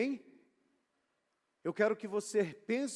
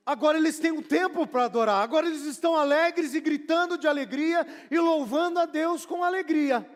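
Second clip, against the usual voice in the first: excited preaching; 5 semitones higher, 4 dB louder than usual. Acted. Preacher describing joyful shouting.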